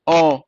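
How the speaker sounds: ओ held long and steady; long vowel. Shown as a demonstration. Teacher showing how long the sound runs, long drawn-out ओ. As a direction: stretch out ओ as an open vowel. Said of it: "काफी लंबी जा रही है".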